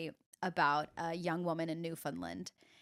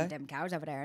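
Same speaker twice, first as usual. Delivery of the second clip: Newfoundland accent; 5 semitones lower, 4 dB quieter than usual. Shown as a demonstration. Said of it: "that would get me into it".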